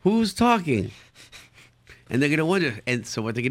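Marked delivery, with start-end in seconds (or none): 0.0-0.9 put-on baffled kid.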